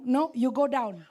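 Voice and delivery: firm loud command; mentor's order. Retold or imitated. John Hartman orders her down to pray, loud and firm. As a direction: bark it like a strict mentor. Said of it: "John Hartman bilang".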